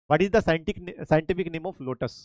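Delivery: drawn-out very slow English question. Shown as a demonstration. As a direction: stretch every word for the class. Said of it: "repeats question in English". (धीमे खिंचे अंग्रेज़ी सवाल)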